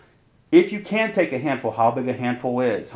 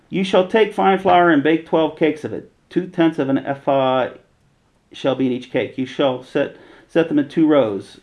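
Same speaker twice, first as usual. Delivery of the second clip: louder, measured reading of the law; scripture reading; 3 dB louder than usual. Acted. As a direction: proclaim the verses like a lawgiver. Reads Leviticus aloud.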